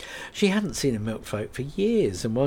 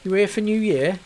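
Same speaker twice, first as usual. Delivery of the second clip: kindly small talk; trying to distract her; lightly voiced officer; 10 semitones higher, 6 dB louder than usual. Officer tries to distract Kate with gentle small talk.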